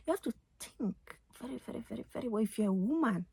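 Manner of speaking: African accent. Real, not acted. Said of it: "now my African accent is out".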